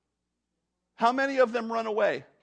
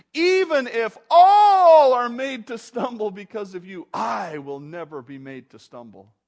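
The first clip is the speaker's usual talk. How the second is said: bold boast; 2 semitones higher, 11 dB louder than usual. Acted. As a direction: proclaim it boldly, then settle down. Acted Peter's bold scriptural boast.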